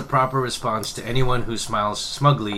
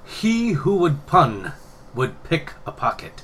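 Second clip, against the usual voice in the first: high, slow dramatic recital; theatrical reading; 6 semitones higher, slower than usual. Shown as a demonstration. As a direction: intone it like a grand proverb. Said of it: "the way you were saying it".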